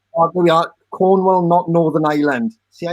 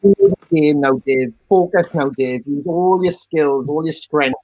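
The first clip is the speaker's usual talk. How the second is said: mock pep talk; 3 semitones lower than usual. Mock coaching Dave.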